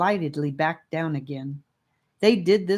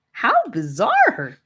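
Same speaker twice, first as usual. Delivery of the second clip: amused; 7 semitones higher, 6 dB louder, slower than usual. Acted. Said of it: "said Rivers, laughing".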